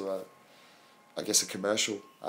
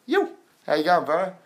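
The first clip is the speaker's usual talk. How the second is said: excited greeting; 7 semitones higher, 5 dB louder than usual. Real, not acted. Greeting a friend in chat.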